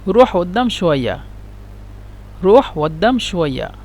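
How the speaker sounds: Egyptian colloquial قدام with a dropped q, /adam/; Egyptian Arabic. Shown as a demonstration. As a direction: say روح قدام شوية the Cairo way. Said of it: "هم ينطقون، مصريين ينطقون".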